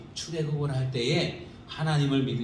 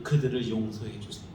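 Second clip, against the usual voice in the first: soft plea; 4 semitones lower, 4 dB quieter than usual. Retold or imitated. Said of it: "하나님 앞에 간구하는 거예요".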